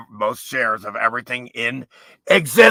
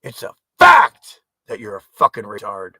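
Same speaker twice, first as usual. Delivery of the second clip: shouted insult; 6 dB louder than usual. Real, not acted.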